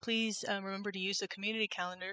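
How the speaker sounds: tinny, echoey mic sound; metallic echo. Real, not acted. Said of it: "like, metallic or with echo".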